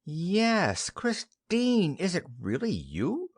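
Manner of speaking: startled, delighted recognition; sudden recognition. Acted. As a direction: burst out as it dawns on her.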